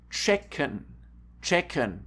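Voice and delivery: "Checken" said as CHECK-en; careful German "Checken", tsh at the start; ch as tsch. Shown as a demonstration. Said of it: "They are pronounced T S C H".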